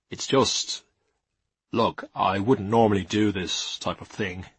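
lightly voiced hesitant, awkward suitor; embarrassed young man. A narrator's reading. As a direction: start haltingly, a little embarrassed.

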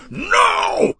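high, drawn-out shout of protest. Acted. Paris shouting to stop slaves going overboard, shouted. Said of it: "he shouted".

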